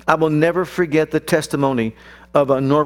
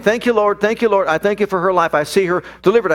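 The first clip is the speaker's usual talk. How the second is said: fervent retold prayer; 4 semitones higher than usual. Father praying over his daughter.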